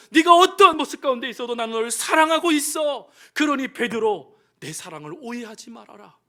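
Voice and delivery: reassuring Lord. Acted. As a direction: reassure him of your love. Jesus reassures Peter at length.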